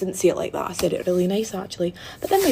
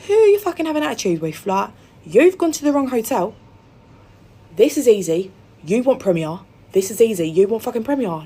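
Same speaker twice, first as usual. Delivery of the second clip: louder, fast scolding; retold angry rant; 4 dB louder than usual. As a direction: tear into her. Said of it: "she started getting really mad".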